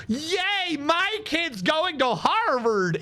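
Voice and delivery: mock cheer, opening high; mock proud parent. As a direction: cheer like a parent bragging, half in jest.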